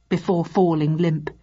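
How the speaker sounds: usual speaking voice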